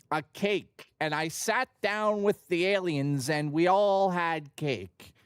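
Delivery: slow, dreamy mock David Lynch interview voice; David Lynch interview impression. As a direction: tell it slowly, like a trance, as a mock David Lynch. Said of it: "he'll be like".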